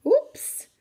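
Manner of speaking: a high, loud little oops; surprised oops. Acted. Reacting as passengers get off.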